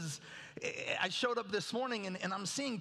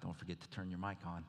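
gentle, soft, sweet, very deep voice; 8 dB quieter than usual. Retelling what a voice from behind him said one Sunday: soft, sweet voice. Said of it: "the soft, sweet voice of the Lord from behind says".

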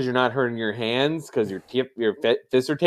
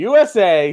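normal talking voice

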